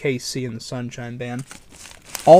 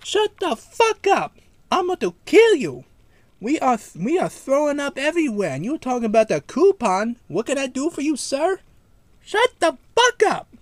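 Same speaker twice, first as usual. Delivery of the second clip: mock furious screaming; 12 semitones higher, 4 dB louder than usual. Kamal screaming at the pizza place, hammed-up fury. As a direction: scream it like a prank caller losing it. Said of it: "like, so mad".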